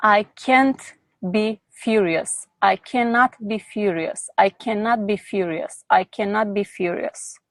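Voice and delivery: steady repeated mantra, demonstrated; repeated affirmation. Shown as a demonstration. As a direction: model the chant calmly, each line falling. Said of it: "And say out loud over and over".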